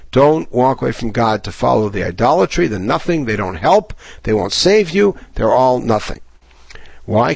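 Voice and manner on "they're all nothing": breathy whisper of contempt for idols; whispered dismissal. Acted. Teacher tells his class the idols are nothing, in a whisper. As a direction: drop to a hushed whisper.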